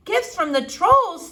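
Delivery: baffled repeat; incredulous Flora. A narrator's reading.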